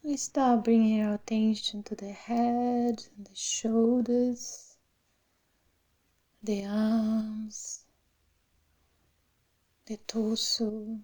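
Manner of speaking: unhurried meditation voice with long pauses; guided meditation. Real, not acted. Meditation teacher settling the class into the body, calm guided meditation. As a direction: guide them gently through the body, phrase by phrase.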